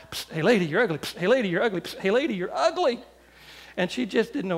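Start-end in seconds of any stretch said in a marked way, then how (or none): 0.1-3.0 relentless mock heckle; heckling bird. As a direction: repeat the taunt like a nagging bird, climbing in pitch. Bird taunts lap after lap.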